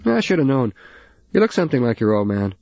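put-on an older man swearing under a truck hood; gruff old father. Father voiced.

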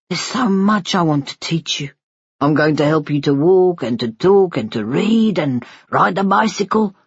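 tender father. Acted. Father promising his baby son a future, tender.

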